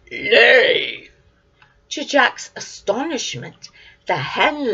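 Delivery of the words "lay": loud one-word command; giant's shout. Acted. Giant commanding the hen to lay, loud shout. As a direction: bark it at the hen. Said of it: "the giant shouted".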